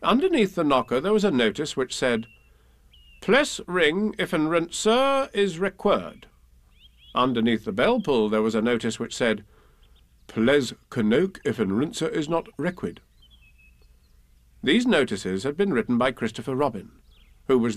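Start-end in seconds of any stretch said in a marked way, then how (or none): 3.2-6.3 PLESS and RANCER sounded out as spelt, higher and slow; misspelt notice read aloud. Acted. Narrator reading Owl's door notice, misspellings sounded out. 10.3-13.0 CANOKE and REQUID sounded out as spelt; misspelt notice read aloud. Acted. Narrator reading the bell-pull notice, misspellings sounded out.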